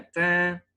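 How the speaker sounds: mock bell "tããn", drawn out; imitated bell. Shown as a demonstration. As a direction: imitate a little bell's ding. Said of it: "sininho, né".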